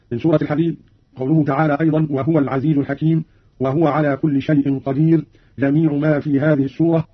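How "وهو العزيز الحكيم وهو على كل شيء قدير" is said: no vowel on the haa of "وهو"; silent-vowel haa. Shown as a demonstration. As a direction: say "وهو" as wahwa. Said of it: "بإسكان الهاء". (تسكين الهاء في «وهو»)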